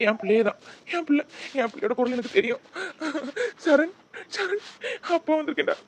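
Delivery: loud, urgent calls for his son; a father sure he hears his boy; desperate father. Acted.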